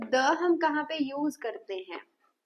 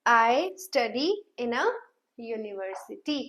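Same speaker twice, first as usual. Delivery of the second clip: very slow; "university" drawn out; slow model sentence; much slower than usual. Shown as a demonstration. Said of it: "Am I clear to you?". (read it out very slowly)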